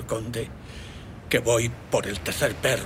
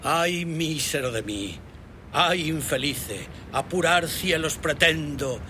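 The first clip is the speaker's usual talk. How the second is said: grand poetry declamation. Acted. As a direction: declaim it like a stage actor. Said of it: "Pío camina declamando".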